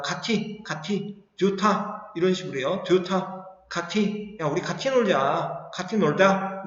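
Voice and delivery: put-on 가티 said with a childish short-tongue lisp. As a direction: talk like a kid with a short tongue. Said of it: "혀 짧은 소리가 나더라". (혀 짧은 소리로 가티 놀자)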